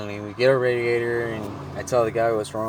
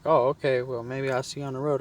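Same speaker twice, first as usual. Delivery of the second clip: higher-pitched friendly farewell as her; imitated woman; 6 semitones higher than usual. Woman says goodbye to him, imitated higher. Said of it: "And she was like".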